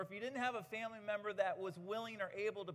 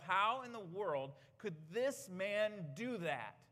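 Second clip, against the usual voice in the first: agitated inner thought; 2 semitones higher, slower than usual. Retold or imitated. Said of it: "I'm a little agitated reading this".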